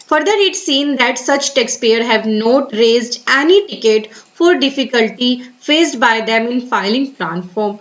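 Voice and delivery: very slow, careful reading of an official notice. Acted. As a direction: read the advisory word by word. Continues reading the advisory. (धीमे, सावधानी से सरकारी सूचना पढ़ना)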